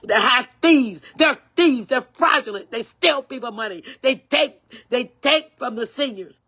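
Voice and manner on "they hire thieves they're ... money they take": angry repeat. Real, not acted. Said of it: "And I'll say it again".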